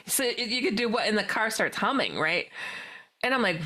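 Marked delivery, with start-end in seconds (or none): 0.1-1.1 incredulous question through laughter; laughing disbelief. Retold or imitated. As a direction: laugh while asking.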